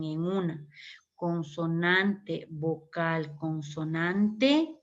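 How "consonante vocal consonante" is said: consonante, vocal, consonante drawn out slowly; slow spelled-out pattern. Shown as a demonstration. Teacher spelling out the verb pattern for students, slow and deliberate. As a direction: lay out each piece slowly for the class. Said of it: "nos dice cuándo terminan".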